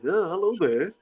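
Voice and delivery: lightly voiced children's-show narrator; a musician. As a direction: narrate like a Liverpool storyteller. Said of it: "the narrator, well, Ringo in".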